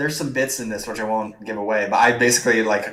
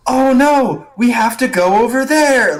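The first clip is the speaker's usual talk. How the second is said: hushed yell, pitched way up; whisper yell; 13 semitones higher, 7 dB louder, slower than usual. Shown as a demonstration. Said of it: "what I like to call the whisper yell".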